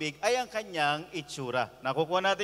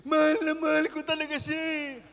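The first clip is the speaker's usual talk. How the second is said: lightly voiced, higher pleading young man; lovesick young man; 6 semitones higher than usual. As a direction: plead like a heartbroken younger brother. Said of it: "tanda-tanda na umiiyak". (bahagyang mataas, nagmamakaawang binata)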